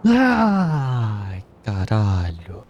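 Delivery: furious shouting at the game; raging gamer. Real, not acted. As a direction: yell in real frustration. Gamer rages at dying again.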